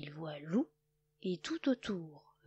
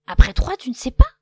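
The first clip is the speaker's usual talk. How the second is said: loud teasing question; mocking; 5 semitones higher, 18 dB louder, faster than usual. A narrator's reading. Cochon teasing Loup, loud and mocking. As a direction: tease him loudly.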